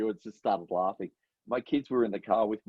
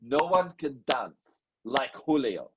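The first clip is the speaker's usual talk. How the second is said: deliberately bad fake foreign accent; higher showman voice, fading off; Julio; 6 semitones higher than usual. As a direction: boast in a hammy, muddled accent. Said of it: "the accent is just so bad".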